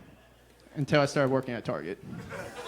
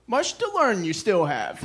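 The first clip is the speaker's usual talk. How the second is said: slow, lightly voiced wise old master; a hint of the little green mentor, drawn out; Star Wars sage quote; 3 semitones higher, slower than usual. Quoting the Star Wars master to the comic after a lesson, lightly voiced and slow. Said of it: "the other famous Star Wars quote".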